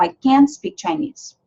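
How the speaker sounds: can't stretched and drawn out; lengthened can't; long can't. Shown as a demonstration. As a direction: hold the vowel in can't. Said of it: "Fica mais longo".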